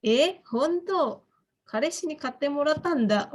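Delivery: modelling a pleased shy reply to a friend; bashful pleased. Shown as a demonstration. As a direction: answer the compliment shyly. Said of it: "Terus jawabannya".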